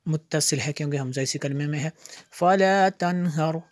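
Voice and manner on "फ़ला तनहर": measured, resonant teaching recitation; word-by-word recitation. Shown as a demonstration. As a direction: chant each word separately with held vowels. (एक-एक लफ़्ज़ लय में पढ़ना)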